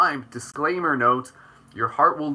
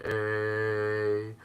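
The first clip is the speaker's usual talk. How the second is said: Canadian eh; 3 semitones lower, 7 dB quieter than usual. Retold or imitated. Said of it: "there's, like, a Canadian".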